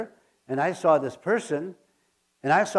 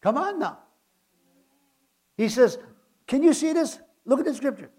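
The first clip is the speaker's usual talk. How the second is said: high, urgent call to the congregation; fervent exhortation; 8 semitones higher than usual. Real, not acted. Preacher urging congregation to look, high and fervent. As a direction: rouse the crowd to look.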